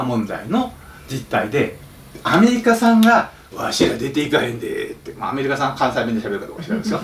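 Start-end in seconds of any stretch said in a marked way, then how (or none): 3.6-7.0 Kansai dialect. Pretend.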